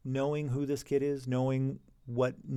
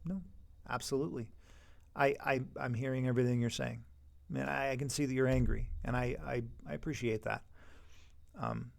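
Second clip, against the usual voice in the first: softer, patient and calm; softer voice that lowers the temperature; calm de-escalating teacher; 5 dB quieter than usual. Shown as a demonstration. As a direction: soothe an angry student, don't match his heat. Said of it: "Don't escalate with them".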